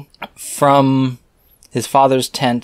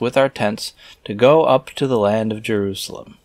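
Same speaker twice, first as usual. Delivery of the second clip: scripture reading; 3 semitones higher than usual. Acted. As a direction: intone the archaic words like a preacher. Reads scripture aloud.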